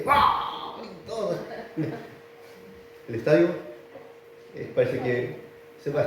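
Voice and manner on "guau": mock crowd yell, pitched up; imitated crowd roar. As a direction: mimic fans roaring at a goal. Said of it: "¿qué gritan ahí?".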